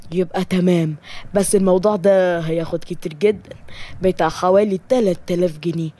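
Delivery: low, businesslike scheming voice; lightly voiced sorcerer. Sorcerer naming his price to a jealous client, low and scheming. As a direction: lightly play a conniving charlatan.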